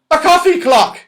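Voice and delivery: very high, loud baffled squeak; surprised saucepan man. Acted. Saucepan man puzzled by the toffee shock, high surprised squeak. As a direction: mishear it in high confusion. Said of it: "even more surprised".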